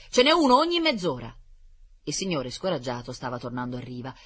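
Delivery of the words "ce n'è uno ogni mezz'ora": high, loud call across water; sailor calling out. A narrator's reading. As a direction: shout it over to the man. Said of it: "gridò un marinaio a quel signore".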